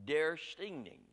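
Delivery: Swedish word said slowly, stress on Der; Swedish accent. Shown as a demonstration. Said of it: "practiced my best Swedish accent".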